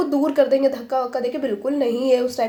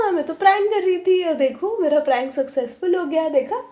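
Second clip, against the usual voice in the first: higher, teasing "told you" voice, lightly acted; gleeful gloating; 3 semitones higher than usual. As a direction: tease them that the prank worked. Gloating that the prank succeeded.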